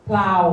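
พลาว loud, with a clear L after P; L, not R. Shown as a demonstration. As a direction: say พลาว with L in the cluster. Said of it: "ไม่ใช่รอเรือตัว L". (พลาว ออกเสียงตัว L ควบชัด)

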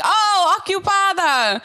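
high, loud burst of mock realisation; imitating maintenance worker. Imitating worker learning the word, high exclamation. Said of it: "he was like".

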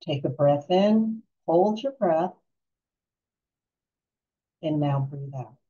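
calm guided-relaxation voice with long pauses; unhurried, soothing meditation guide. Real, not acted.

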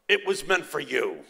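imitated Italian father, reassuring her; Italian accent. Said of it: "he said in his Italian accent".

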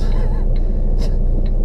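breathy, voiceless chuckle; real laugh. Real, not acted. Driver amused at blasting through the residential area, breathy laugh. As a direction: laugh it off with little voice.

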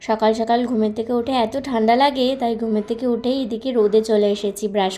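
talking with a toothbrush in mouth; while brushing teeth. Real, not acted. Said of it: "brush করতে করতে". (দাঁত brush করতে করতে কথা)

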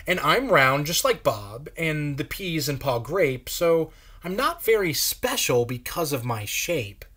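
lightly voiced grand lady; a touch of a haughty madam; Madam Blueberry. Madam Blueberry tells children about her hue.

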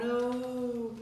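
drawn-out little moan; mock moan.

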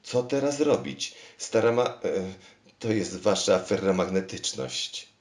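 high, loud anxious plea; stumbling, desperate for help; alarmed plea. Acted. King begs the machine for advice, high and loud.

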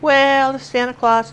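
little girl's Southern drawl, imitated. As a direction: stretch it in a child's put-on Southern drawl. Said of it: "she's in this drawl".

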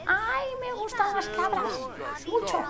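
high, slow, airy socialite voice; ditzy heiress gushing about goats, high and slow; Paris Hilton impression. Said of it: "Paris Hilton está ahí como".

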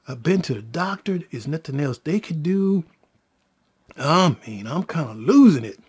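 low, subdued run of complaints; mildly acted distress, voice sunk low; overwhelmed lament. Baby mother explains her problems, overwhelmed.

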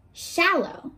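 Shallow lifted high and held apart; word singled out. Shown as a demonstration. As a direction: set Shallow apart for the kids to think about. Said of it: "What do you think that word means?".

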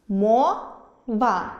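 «Мова» said slowly by syllables; «Мова» split into two slow syllables, мо-ва; syllable demo. Shown as a demonstration. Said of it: "Два склади". (слово «Мова» по складах)

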